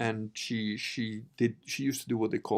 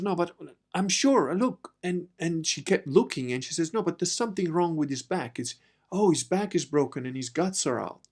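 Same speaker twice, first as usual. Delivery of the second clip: alarmed medium; 5 semitones higher than usual. Retold or imitated. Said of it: "She goes".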